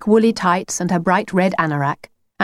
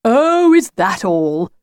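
cheerful; slower than usual. Acted. The wolf dismisses Lucy's school, cheerful. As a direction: brush it off cheerily. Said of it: "the wolf cheerfully".

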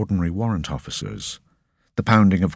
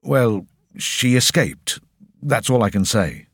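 nervous; 5 semitones higher than usual. Acted. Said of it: "visibly sweating".

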